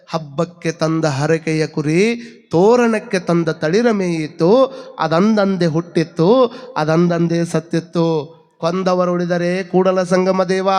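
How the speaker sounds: slow, measured verse recital; vachana recitation. Acted. Preacher reciting Basavanna's verse about the festival lamb, slow recitation. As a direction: recite each line slowly, drawing out the endings.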